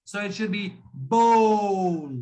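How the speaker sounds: bowl drawn out slowly as one syllable. Shown as a demonstration. Teacher slowly models bowl for Mister Jain. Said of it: "it's a one syllable word".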